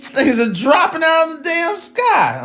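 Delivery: spluttering with laughter over the news; laughing. Real, not acted. Laughing through disbelief.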